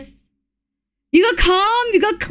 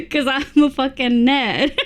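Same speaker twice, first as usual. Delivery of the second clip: laughing. Real, not acted. Laughing through self-mockery.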